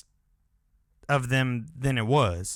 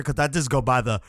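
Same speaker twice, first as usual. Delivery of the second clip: words stretched by a yawn; 2 semitones lower, faster than usual. Real, not acted. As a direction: yawn while saying it. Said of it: "I'm fucking yawning".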